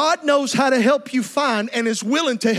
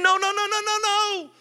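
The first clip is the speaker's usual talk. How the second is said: desperate pleading. Acted. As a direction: beg to undo the loss. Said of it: "he's thinking".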